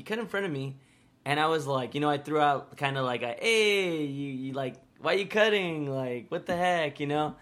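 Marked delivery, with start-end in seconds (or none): 3.4-7.0 playful mock objection, pitched up in places; joking protest. Kid protesting to a friend who cut in line, joking objection. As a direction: object jokingly, not intimidating at all. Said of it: "It was very obvious I was joking".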